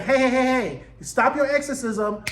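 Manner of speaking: mock calling out. Dream interrupting the exorcism, mock calling out.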